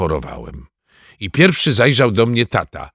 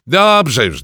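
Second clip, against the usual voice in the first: exasperated; 4 semitones higher, 6 dB louder than usual. Acted. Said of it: "powiedział tata".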